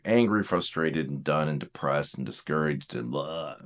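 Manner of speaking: sinking low and soft; running out of spirit; deflated discouragement. Shown as a demonstration. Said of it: "go so fast to one and just be".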